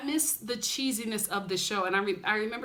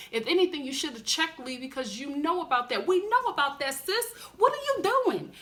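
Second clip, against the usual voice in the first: calling Rachel out; 2 semitones higher than usual. Retold or imitated. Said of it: "And I'm like".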